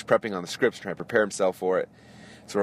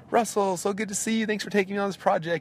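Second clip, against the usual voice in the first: much higher, booming showman greeting; larger-than-life celebrity; 12 semitones higher than usual. Retold or imitated. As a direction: greet an old friend like a stage star. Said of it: "bigger than life as always".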